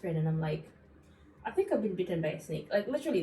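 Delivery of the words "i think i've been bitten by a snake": calm deadpan. Retold or imitated. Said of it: "exactly how I said it".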